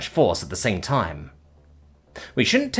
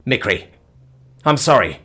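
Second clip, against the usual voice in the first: higher, louder desperate apology; begging forgiveness through tears; apologising to the hurt alien; pleading; 4 semitones higher, 3 dB louder than usual. Acted. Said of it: "I pleaded".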